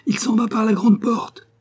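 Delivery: alerte criée, beaucoup plus haut et plus fort; prévenez les autres de loin; cri d'alerte. A narrator's reading. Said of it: "cria Saul". (Saul crie aux poursuivants que le coq s'échappe, très haut et fort)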